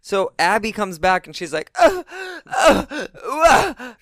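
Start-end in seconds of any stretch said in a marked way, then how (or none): 1.8-3.9 loud, high grunted yelps; short mock cries, pitched way up; imitated obnoxious noises. Mimicking Abby's irritating noises, loud high yelps. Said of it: "it's her noises, and it's obnoxious and irritating".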